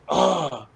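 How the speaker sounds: retold exasperated "ugh"; frustrated groan. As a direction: groan as if recalling your own frustration. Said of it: "I was so frustrated".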